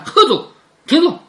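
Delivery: storyteller's acted yell; mock shout. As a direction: call out to stop someone, half-shouted. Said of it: "凤姐提着名字喊".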